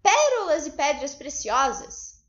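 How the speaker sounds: slow, drawn-out exclamation; exclamação. Shown as a demonstration. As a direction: exclaim it slowly, word by word. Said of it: "ela está exclamando". (exclamando devagar)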